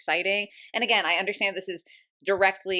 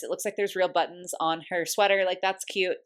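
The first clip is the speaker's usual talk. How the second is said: talking through hiccups; hiccuping. Real, not acted. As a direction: hiccups breaking the words. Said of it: "Sorry, I'm, like, hiccuping".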